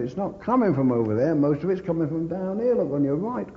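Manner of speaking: angry rebuke. Retold or imitated. Soldier berating the idle gun crew, angry shout. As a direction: berate them for sitting idle.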